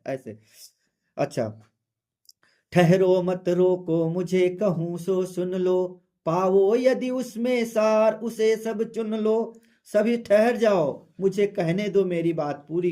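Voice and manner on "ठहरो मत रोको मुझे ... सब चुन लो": slow, measured verse reading; poem recitation. Acted. Teacher reading Kaikeyi's verse to students, slow recitation. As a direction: recite it slowly, line by line.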